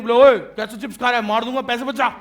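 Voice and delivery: sudden loud, fast bark at a citizen; mock scolding threat. Government threatening a citizen over eating chips, loud mock scolding. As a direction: play a bullying official, loud and fast. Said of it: "ऐसे बोल सकती है government?".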